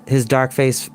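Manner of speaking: low, soft menacing warlord; cold threat to a prisoner; grim chieftain. Acted.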